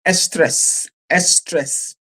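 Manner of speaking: "estrés" said with a leading "es" before "tres"; Spanish pronunciation. Shown as a demonstration. Presenter showing viewers the Spanish word, careful "estrés" opening on "es". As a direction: say "estrés" as two beats, es-TRES. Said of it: "Spanish, it's called".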